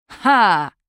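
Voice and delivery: loud, breath-driven "ha!"; exhaled triumph. A narrator's reading. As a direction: blurt it out in victorious relief. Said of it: "выдохнула Няма". (торжествующе выдохнуть)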